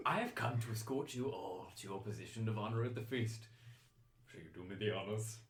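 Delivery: lightly voiced formal escort; gallant chancellor. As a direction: offer your arm with courtly ceremony.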